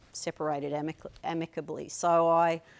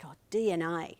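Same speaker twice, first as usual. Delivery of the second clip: whispered. Retold or imitated. Retold answer to aunt.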